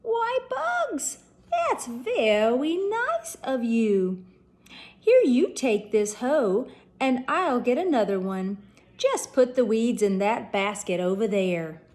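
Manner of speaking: a lightly done cartoon hunter; Elmer Fudd voice.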